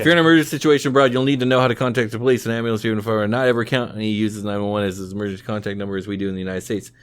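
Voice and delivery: rapid read from a web page; reading aloud. Real, not acted. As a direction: rattle through the written advice quickly. Reads a travel web page aloud.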